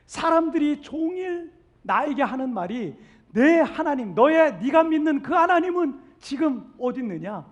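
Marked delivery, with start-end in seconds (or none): 3.3-7.4 louder, scornful jeering question; mocking taunt. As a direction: taunt him like a sneering crowd. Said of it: "이렇게 조롱한다는 거예요". (조롱하는 말투)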